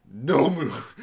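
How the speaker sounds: loud, high yelp at the screen; mock shout. Reviewer yelling at a monster in 3D, mock shout. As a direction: bark it back at the jump scare. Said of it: "And I was like".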